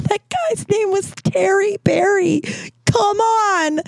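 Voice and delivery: high, slow words wobbling with laughter; fighting giggles to explain; laughing. Real, not acted. Telling Otto the name through laughter, pitched high. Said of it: "I might start laughing really hard".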